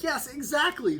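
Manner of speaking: high, loud excited agreement; acted elation. Dad agreeing with excited wife, high acted elation. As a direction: burst out in squeaky agreement.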